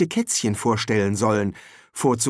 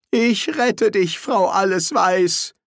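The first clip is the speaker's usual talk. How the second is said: higher, louder, slow gallant call; heroic Senior Wrangler; 8 semitones higher, 4 dB louder, slower than usual. A narrator's reading. Senior Wrangler gallantly offers to rescue the housekeeper, slow and grand. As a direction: play the would-be hero. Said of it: "rief er".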